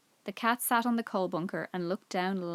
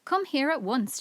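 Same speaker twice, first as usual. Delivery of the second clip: calling Timmy, louder and higher; shouting for the dog; 5 semitones higher, 3 dB louder than usual. A narrator's reading. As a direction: call the dog sharply across the garden. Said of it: "shouted George".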